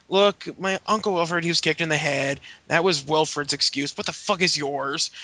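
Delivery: bad Irish accent. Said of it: "Sheamus is like".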